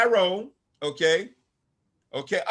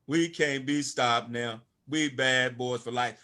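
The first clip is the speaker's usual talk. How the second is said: slow quoted lyric line; 5 semitones lower, slower than usual. Retold or imitated. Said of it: "As a rapper said".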